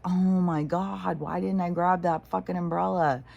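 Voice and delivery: mild exasperated self-reproach; mock exasperation. Imagining being caught in rain without the umbrella, mock exasperated. Regretting having ignored the voice.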